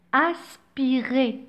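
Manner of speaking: "Aspiré" drawn out slowly; slow stressed word. Shown as a demonstration. Teacher stressing the key term for the class. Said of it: "c'est un H aspiré".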